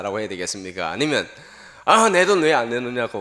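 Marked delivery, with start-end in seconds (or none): 1.8-3.2 loud, higher demand for the money; angry yell. Retold or imitated. Preacher mimicking a greedy villager, angry yell. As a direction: snap at him for holding back. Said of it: "고함을 질러야 되겠습니까".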